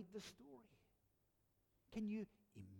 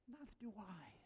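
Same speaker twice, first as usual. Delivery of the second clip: soft first reading; 8 dB quieter than usual. Shown as a demonstration. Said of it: "Don't you love those words?".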